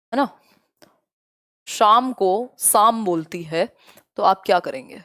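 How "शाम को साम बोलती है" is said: put-on teacher showing the child's swap, शाम turned into साम; mispronunciation demo. Shown as a demonstration. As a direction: slowly contrast शाम with साम. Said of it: "श को स बोलती है".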